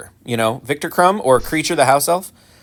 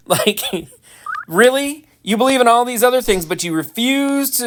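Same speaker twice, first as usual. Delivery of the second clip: exasperated disbelief; 10 semitones higher than usual. Real, not acted. Exasperated at Ravenclaws.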